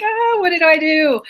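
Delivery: high, playful imitation of her own fluster; mock panic. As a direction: act out a flustered "oh no", voice shooting up high. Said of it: "So I was like".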